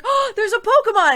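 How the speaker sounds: high, laughing squeal over a Pokemon; excited squeal. Retold or imitated. Stopping mid-crosswalk, spotting a Pokemon, excited laughing squeal. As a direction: squeak it out, delighted and distracted. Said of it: "'cause I was like".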